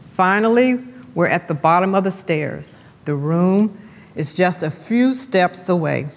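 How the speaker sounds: measured, reflective reading of her own devotional; reading her devotional aloud. Shown as a demonstration. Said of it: "And I want to read it to you".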